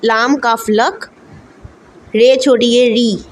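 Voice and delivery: लक and री spelled slowly letter by letter; slow spelling out. Shown as a demonstration. Teacher slowly spelling लकरी for students. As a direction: sound out each letter slowly. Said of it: "इसको भी pronounce कर लेते हैं".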